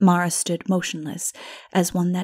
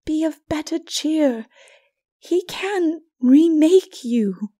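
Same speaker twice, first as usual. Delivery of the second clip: raised, hushed and slow, half whispered; gentle Mara; 7 semitones higher, 5 dB louder than usual. A narrator's reading. Mara consoles Lilith, gentle and hushed. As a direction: comfort her tenderly.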